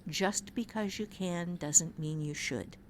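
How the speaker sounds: slow, soft and deliberate; quoted maxim. Shown as a demonstration. To a fellow writer, a slow, soft, deliberate maxim. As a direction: lay the maxim down gently like advice. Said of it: "take these words to heart".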